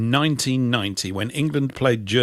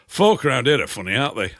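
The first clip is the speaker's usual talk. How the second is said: imitating a Yorkshireman's complaint; lightly put-on Yorkshire accent; northern accent. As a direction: do a northern local having a moan. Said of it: "sort of northern chat".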